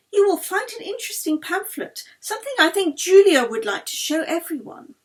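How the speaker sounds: lightly voiced Swedish baroness introducing a guest; Swedish accent. A narrator's reading. The Baroness invites Lady Chiltington to sit, in Swedish tones. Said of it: "The Swedish inflections".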